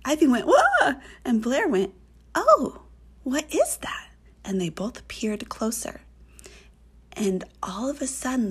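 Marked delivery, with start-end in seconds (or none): 0.5-1.0 high, loud yelp of alarm; startled scare. A narrator's reading. Girl spots something strange in the pool, startled yelp. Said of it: "they were scared". 2.4-4.1 high-pitched, mildly alarmed question; a high gasped oh, then a startled question; startled scare. A narrator's reading. Second girl peers at the creature in the pool, mildly scared. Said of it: "they were scared".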